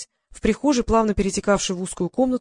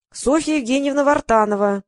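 Софья Евгеньевна Вартанова squeaked out high and nasty; nasty creaky voice; 6 semitones higher, 3 dB louder than usual. A narrator's reading. Heroine fakes a phone company clerk, nasty creak. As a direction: creak the name out in a nasty official voice. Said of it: "противным голосом проскрипела я".

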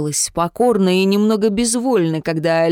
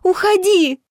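much higher tearful shout; tearful cry; 12 semitones higher than usual. A narrator's reading. Jemma in tears orders Vitya away, high tearful shout. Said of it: "По её щекам покатились слёзы".

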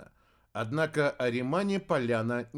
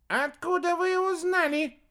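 very high squeak from the bushes; squeaky child; 4 dB louder than usual. A narrator's reading. Hidden otter cub asks from bushes, squeaking. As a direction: squeak like a tiny hidden creature. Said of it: "пропищал кто-то из кустов".

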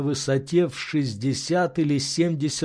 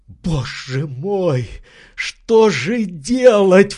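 slow, despairing cry rising to loud; 5 semitones higher, 6 dB louder, much slower than usual. Acted. Legrand despairing about the dead branch, slow. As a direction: wail it out, at a loss. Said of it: "в отчаянии".

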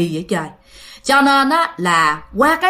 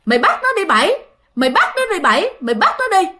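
urging aunt; 8 semitones higher, faster than usual. Retold or imitated. Eerie aunt urging ghost Bảy to take her, high goading call. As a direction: goad the ghost to grab her. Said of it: "người dì đó mới nói rằng vậy nè".

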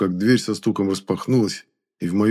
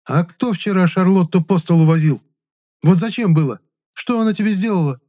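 angry scolding; 10 semitones higher, 5 dB louder than usual. A narrator's reading.

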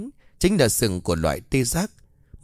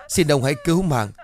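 raised, pleading cry for mercy; crying plea; 4 semitones higher than usual. Acted. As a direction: beg with a tearful cry. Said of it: "tiếng khóc vang lên".

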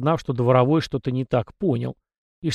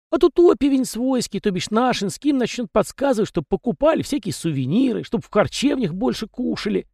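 high, folksy little peasant voice; chatty house spirit; 10 semitones higher than usual. A narrator's reading. House spirit Tikhon rambling to the young master, high and folksy. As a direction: prattle on as a talkative domovoi.

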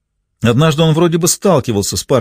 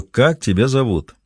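slower, each word weighed as a threat; slow menacing repeat; 2 semitones higher, slower than usual. Acted. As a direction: ask again slowly, leaning on him. Ray repeats after pressing harder.

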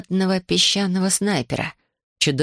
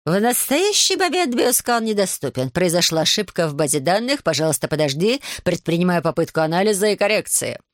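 whistling device voice. Acted. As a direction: read like a crackling gadget. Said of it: "ответил свистящим голосом".

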